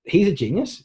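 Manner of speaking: high-pitched impressed exclamation; mock admiration. Voicing an admiring audience member.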